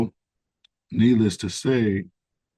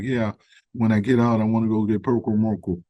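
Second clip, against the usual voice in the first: put-on quoting the plane neighbour in a Southern accent, not overdone; a hint of thick Southern accent, hurried; 2 semitones higher than usual. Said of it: "real thick Southern accent".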